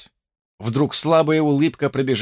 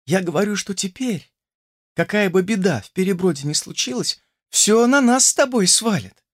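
a hint of a young girl, raised pitch; lightly voiced young woman; 7 semitones higher than usual. A narrator's reading. Olesya to grandmother, lightly voiced young girl. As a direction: speak up to a half-deaf grandmother.

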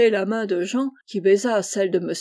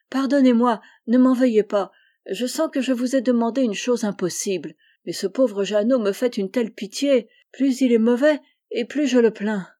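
pleading. Acted. Boy begs his benefactor not to be angry, pleading. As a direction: beg forgiveness, mildly urgent. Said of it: "d'un air suppliant".

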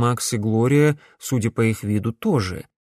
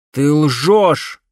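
loud accusing shout; 4 semitones higher, 7 dB louder than usual. A narrator's reading. Alex shouts at the woman claiming to be his mother. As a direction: hurl it at her. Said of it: "крикнул Грановский".

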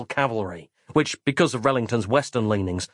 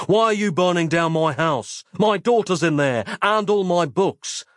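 higher, pleading outburst; desperate outcry; 6 semitones higher than usual. A narrator's reading. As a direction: cry out for your daughter and books. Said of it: "I cried at Rellington".

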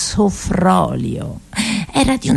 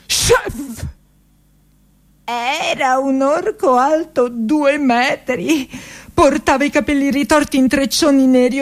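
higher and higher, rising to a shout; building excitement; 7 semitones higher than usual. A narrator's reading. Narrator unveils the ogre chef, climbing to a shout. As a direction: pile it on until the big reveal.

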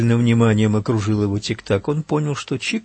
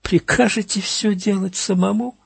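annoyed shout; 9 semitones higher than usual. A narrator's reading. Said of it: "прикрикнул Тик-так".

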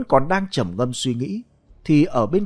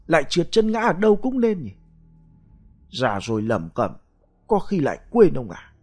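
feigned surprise; 3 semitones higher than usual. Acted. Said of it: "thì cũng lấy giọng làm lạ".

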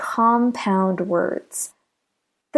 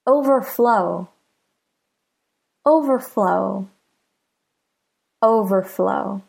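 "overflow" with stress on the last part, "flow"; careful model of "overflow", second part stressed. Shown as a demonstration. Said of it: "the stress is on the second part".

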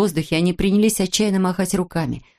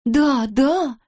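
tag; 6 semitones higher than usual. A narrator's reading. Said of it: "заговорили вдруг все".

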